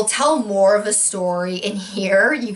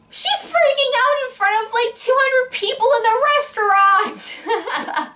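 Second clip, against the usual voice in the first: much higher and laughing through it; laughing embarrassment; 14 semitones higher than usual. Real, not acted. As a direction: giggle it out, mortified. Embarrassed recalling restaurant scene.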